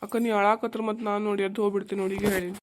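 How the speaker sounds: fast, crying words; choked up. Acted. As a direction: rush it out through tears. Brother himself breaking down. (ಅಳುತ್ತಾ ಬೇಗಬೇಗ ಹೇಳುವುದು)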